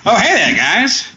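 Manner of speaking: lightly voiced old-timey announcer; hint of a showman's hello; grand old ballroom announcer. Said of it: "old-timey announcer Billy Robinson".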